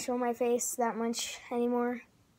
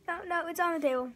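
panicked; 6 semitones higher, faster than usual. Real, not acted. Juice spilled on table.

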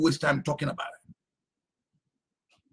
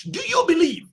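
shouted challenge; 9 semitones higher than usual. Acted.

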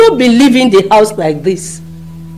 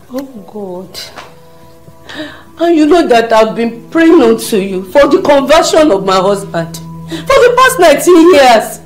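crying prayer; 3 semitones higher than usual. Acted.

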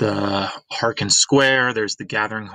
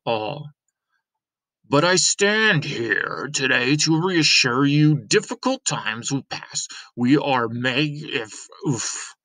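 lightly voiced mayor addressing the crowd; a hint of a self-important official; pompous mayor; 5 semitones higher than usual. Mayor addressing the citizens of Ember, lightly pompous.

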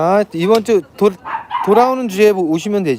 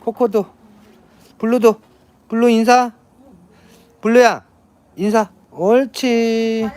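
talking to a dog; 3 semitones higher than usual. Real, not acted. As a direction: coax the dogs like a trainer. Training the dogs to greet. (강아지한테 말하는 말투)

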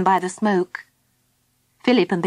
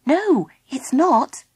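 calming correction; 5 semitones higher, much slower than usual. Acted. Philip calms the frightened Baby Bee.

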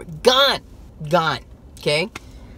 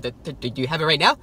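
stuttering. Retold or imitated. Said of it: "Stuttering and everything".

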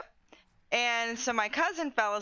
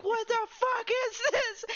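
mock angry cousin; 11 semitones higher than usual. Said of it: "and he's like".

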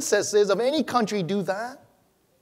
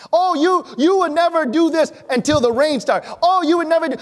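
high, loud taunting voice; mock scoffing; 7 semitones higher, 5 dB louder than usual. Pastor mimics scoffers taunting a believer, high and loud. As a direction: sneer it like the doubters did. Mocking people who once scoffed.

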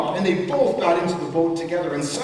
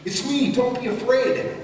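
yelling; 7 semitones higher than usual. A narrator's reading. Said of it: "yelled to them through the storm".

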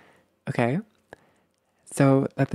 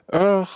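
higher mock-frustrated "ugh"; put-on groan of anger; angry groan; 6 semitones higher, 4 dB louder than usual. Upset partner coming to you, angry groan. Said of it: "I'm so angry".

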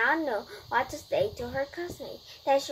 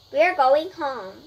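upset; 3 semitones higher, 9 dB louder, slower than usual. A narrator's reading. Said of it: "Tina was upset".

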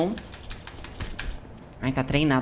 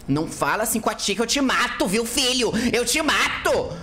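mock scolding; 6 semitones higher than usual. Mother scolds baby in roleplay.

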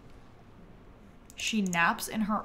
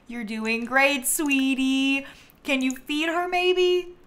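coaxing; 3 semitones higher, slower than usual. Pretend. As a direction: coax a game character like a sweetie. Coaxing a game character sweetly.

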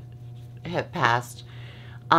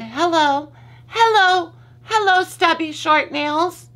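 high squealed hello, rising louder; mock-excited greeting; 12 semitones higher, 5 dB louder than usual. Real, not acted. Greeting her own stubby nails, squealing high.

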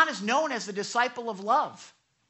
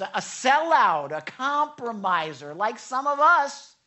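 normal talking voice

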